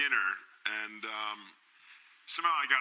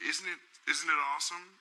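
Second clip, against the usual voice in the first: lightly imitated higher voice; a famous pop singer; 5 semitones higher than usual. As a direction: imitate him, pitched a bit high. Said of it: "He's like".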